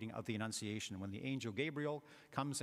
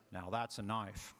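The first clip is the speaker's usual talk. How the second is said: put-on slow, low Australian accent, leaning on "that's"; a Crocodile Dundee Aussie brag, taking it slow; lightly done Australian accent, proud and slow; 3 semitones lower than usual. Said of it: "It's my Aussie accent".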